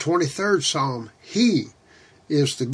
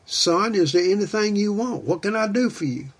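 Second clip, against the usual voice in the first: higher, tender fatherly question; a father lovingly offering his son anything; voice of God the Father; 5 semitones higher than usual. Retold or imitated. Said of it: "and I hear him say".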